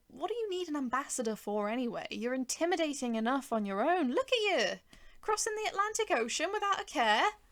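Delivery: amazed rising voice; awed. A narrator's reading. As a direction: marvel at the giant. Narrator excited in awe.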